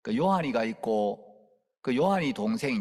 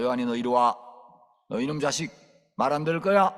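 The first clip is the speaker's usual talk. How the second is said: firm, louder rebuke; stern scolding; 3 dB louder than usual. Retold or imitated. Preacher threatening a disobedient boy, stern and loud. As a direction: make the boy come.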